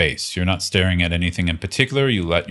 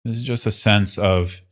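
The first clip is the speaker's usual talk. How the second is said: unhurried meditation guide, long pauses between phrases; guided meditation. Acted. Teacher leading listeners into relaxed awareness, guided meditation. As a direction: guide them gently into practice, leaving space.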